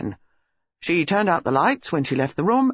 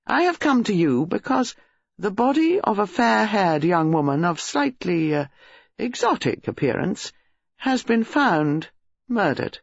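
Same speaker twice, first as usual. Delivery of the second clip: grave police colonel; 5 semitones higher than usual. Acted. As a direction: break grim news deliberately, with small hesitations.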